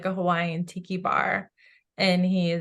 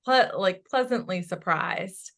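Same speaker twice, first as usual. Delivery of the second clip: pleasantly surprised quote. Retold or imitated. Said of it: "He says".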